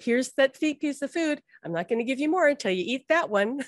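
a hint of a mother bird feeding her chick. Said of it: "like a mother bird feeding her baby bird".

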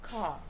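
"car" with a long vowel and no r; non-rhotic "car"; British car. Shown as a demonstration. Teacher showing the silent final r. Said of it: "Ela vai ficar sendo".

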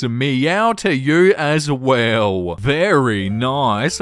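slow, drawn-out leering delivery; mock creepy flirting. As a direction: savour each word suggestively. Reads a leering reply to match.

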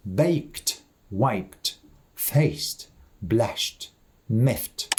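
baked, wiped, faced, blushed, miffed each ending in a T sound; voiceless ending. Shown as a demonstration. Teacher repeats examples after voiceless sounds, T ending on baked, wiped, faced, blushed, miffed. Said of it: "після глухих звуків воно читається глухо".

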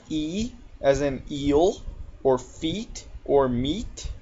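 "E", "eel", "feet", "meat" with a clear ee; long E demo. Shown as a demonstration. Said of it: "E can sound like".

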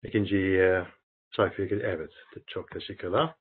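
halting Turkish with foreign accent; foreigner broken turkish. Real, not acted. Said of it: "yani Türkçem çok, e, iyi değil".

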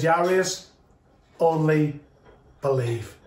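low, measured words with pauses between; comforting. Retold or imitated. Jesus comforting a grieving father, low and measured reassurance. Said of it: "enough to bring comfort to Jairus".

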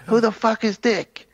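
high, slow, outraged mock gangster voice; hammed-up disbelief, drawn out; mock baffled thug. Podcast host imitates the stoned guy's outrage, high and slow. Retelling a movie scene.

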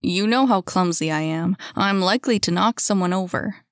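lightly voiced young man declining; a hint of a self-deprecating gentleman; Timothy, knowingly reluctant. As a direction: beg off with a knowing air.

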